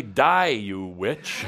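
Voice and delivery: defiant dismissal. Shown as a demonstration. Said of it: "take a deep breath and say".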